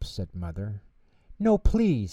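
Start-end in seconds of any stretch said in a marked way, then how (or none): 1.4-2.1 higher, louder urgent no; eager refusal. A narrator's reading. Arthur keeping Mom out of the kitchen, higher urgent plea. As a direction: stop her before she helps. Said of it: "said Arthur".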